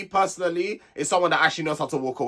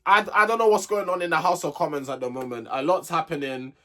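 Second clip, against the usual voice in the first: ordinary delivery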